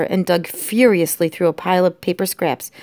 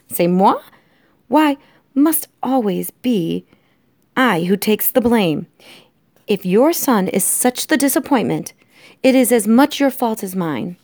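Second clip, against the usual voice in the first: raised, emphatic complaint; affronted French wife; 4 semitones higher than usual. Acted. Antoinette refuses the blame, indignant. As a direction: protest with wounded indignation.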